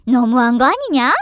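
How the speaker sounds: loud indignant complaint; angry mother-in-law. A narrator's reading. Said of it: "성을 내시는 시어머니". (화난 시어머니 목소리)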